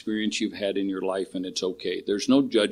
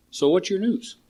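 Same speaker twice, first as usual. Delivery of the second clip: put-on serene old master, higher and softer; a hint of a calm old sage, higher; calm wise master; 4 semitones higher, 5 dB quieter than usual. Retelling the turtle master calming the chicken, serene and soft.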